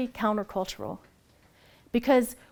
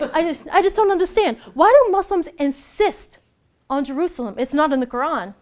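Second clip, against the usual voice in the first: put-on Brooklyn accent; 5 semitones higher, 6 dB louder than usual. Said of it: "And he's from Brooklyn".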